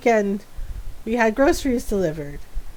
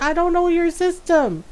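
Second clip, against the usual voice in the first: laughing mimicry; 5 semitones higher than usual. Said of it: "I was like".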